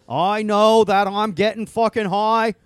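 loud, high, drawn-out whooping holler; hollered stoner quote. Pretend. Stoned president crowing about his night, drawn-out holler. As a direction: stretch every word out, shouted high.

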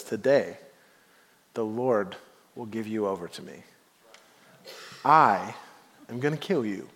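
steady, unhurried, lightly voiced calm boy; quietly certain, no rush at all; calm and cool. David answering the giant, calm and cool. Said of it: "Just calm, cool, and elect-, collective".

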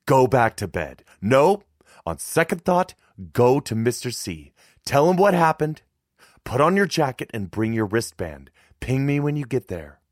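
loud, high, urgent commands; commanding and insistent; barking orders. A narrator's reading. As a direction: fire off instructions like a worried mother. Mother barks orders at her son.

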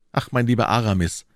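sighed address to a dear friend; mildly sorrowful, sighing; deep sigh. A narrator's reading. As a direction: let the words out on a sigh. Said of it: "sagte D'Artagnan tief seufzend".

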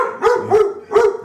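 high, loud whooping yelp; hype yelp. Real, not acted. To his dog at the door, a loud high whoop. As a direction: let out a hype man's whoop.

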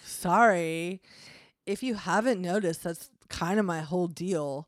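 lightly voiced devil with Valley Girl accent. Devil excusing himself to his roommate, slight Valley Girl accent. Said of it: "now he sounds like Valley Devil".

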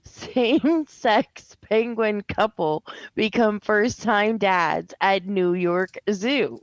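slowly, weighing every word; slow deliberate reread. Shown as a demonstration. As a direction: read the headline again, slow and disbelieving. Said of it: "same words read again".

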